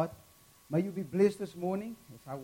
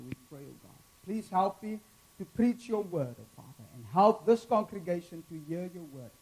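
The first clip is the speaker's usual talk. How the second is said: earnest pastor's prayer. Acted. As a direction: pray sincerely over the church. Leads a prayer.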